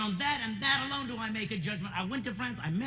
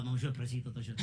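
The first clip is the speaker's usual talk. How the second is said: clumsy French; 8 semitones lower, 4 dB quieter, faster than usual. Retold or imitated. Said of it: "They freak".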